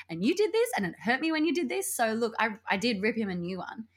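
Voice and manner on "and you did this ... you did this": retold rant. Acting out her angry texts.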